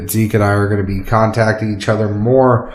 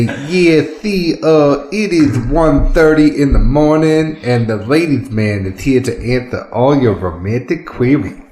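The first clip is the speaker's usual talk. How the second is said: ladies' man voice; 3 semitones higher than usual. Pretend. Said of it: "I'm just gonna say".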